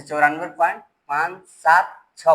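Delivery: "पाँच सात छः" read as separate digits; "पाँच सात छः" spaced out, each digit on its own. Shown as a demonstration. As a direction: say "पाँच", "सात", "छः" one at a time. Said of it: "एक एक करके पढ़ते हैं".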